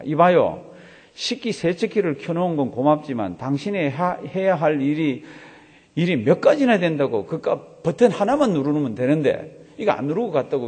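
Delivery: mild mock yell; retold shout. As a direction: imitate an angry call from upstairs, only half shouted. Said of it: "삼 층에서 고함을 지릅니다". (고함을 살짝 흉내 내듯)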